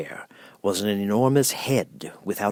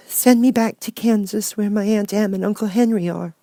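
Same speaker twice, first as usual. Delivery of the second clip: earnest; 13 semitones higher, 4 dB louder than usual. Acted. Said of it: "she answered earnestly".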